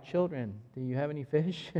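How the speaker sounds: quiet, gentle question that won't reach far; calm, not carrying. Shown as a demonstration. A preacher shows a call too soft to cross a field, quietly. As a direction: say it softly as if across a football field. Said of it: "You're not gonna hear me".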